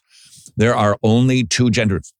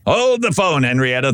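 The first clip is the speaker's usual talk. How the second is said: mock alarm; 4 semitones higher than usual. Real, not acted. Interrupting the clip in mock alarm.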